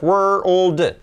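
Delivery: "World" split into wer, ol, d; segmented pronunciation. Shown as a demonstration. Teacher separating three sounds, segmented pronunciation. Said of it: "¿qué suenan los tres sonidos?".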